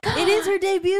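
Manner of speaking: excited gasp. Real, not acted. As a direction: react with delighted surprise. Excited reaction to debut.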